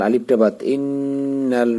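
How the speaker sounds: ইন্নাল said slowly with a thick heavy lam; heavy lam demo. Shown as a demonstration. Quran teacher showing students a heavy lam. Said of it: "লামটা মোটা করে পড়তে হবে".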